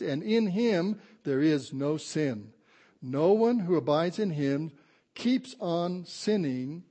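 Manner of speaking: slow, emphatic pulpit reading; scripture reading. Acted. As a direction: read the verse out slowly, word by weighty word. Reads scripture to congregation.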